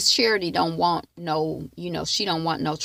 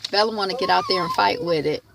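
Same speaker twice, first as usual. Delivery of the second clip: the same line again, louder and shouted; raised, shouted repeat; half shouted remark; 3 dB louder, faster than usual. Real, not acted. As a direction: call it out over the barking.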